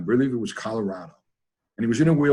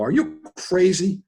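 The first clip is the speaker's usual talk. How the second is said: incredulous coworkers; 8 semitones higher, slower than usual. Retold or imitated. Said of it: "They go".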